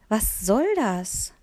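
put-on slow, grumbling old gardener; a hint of a grumpy old man. Girl startled by her own old-man voice, grumbling. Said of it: "Meine Stimme klang viel zu tief und genauso mürrisch".

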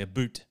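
"boot" said with an oo sound, mimicking Canadian about; "boot" in a half-hearted Canadian imitation; mock Canadian pronunciation. Shown as a demonstration. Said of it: "I can't do a Canadian accent".

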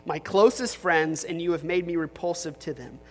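earnest, lightly heightened Bible reading; scripture reading. Acted. Pastor reading Psalm 88 to the congregation, earnest and grave.

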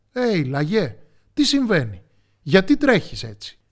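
puzzled storybook shout; calling out. A narrator's reading. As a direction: call out urgently to a runner. Oxen call to running hare.

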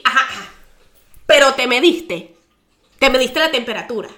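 loud, slowed scold stressing "Pero te mediste"; scolding doctor. Retold or imitated.

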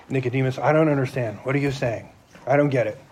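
a confused man asking softly; puzzled Nicodemus. Retold or imitated. Nicodemus confused by Jesus, soft puzzled voice. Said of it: "me paraphrasing".

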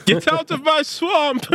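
high, drawn-out mock ogre yell; Shrek. Announcing number one movie, playful Shrek impression. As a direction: bellow it slowly as a hammed-up movie quote. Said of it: "would be Shrek".

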